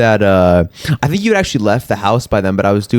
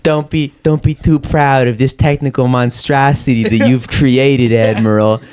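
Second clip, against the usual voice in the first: Vader impression; 4 semitones higher than usual. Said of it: "Like Darth Vader".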